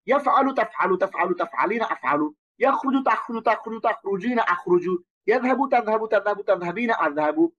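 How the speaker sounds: rapid one-breath recitation drill; each in one breath. Shown as a demonstration. Teacher shows students how to recite each row in one breath. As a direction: rattle off each verb row quickly in a single breath. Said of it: "প্রত্যেকটা এক শ্বাসে বলবেন".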